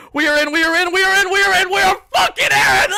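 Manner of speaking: repeated chant climbing to a high yell; building elation. Real, not acted. Fan as the team gets in, chant building to a shout. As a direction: wind it up until it bursts out.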